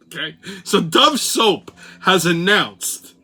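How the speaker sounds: put-on old-school Brooklynese; Brooklyn accent. Crazy train host mocking the news for listeners, Brooklynese. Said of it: "go with the old Brooklynese".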